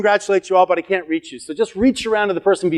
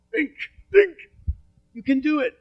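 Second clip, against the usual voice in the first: much higher, squeaky cheering on; high cheerleader voice, teasing; mock coaching squeak; 11 semitones higher than usual. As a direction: playfully squeal encouragement. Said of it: "I'm like".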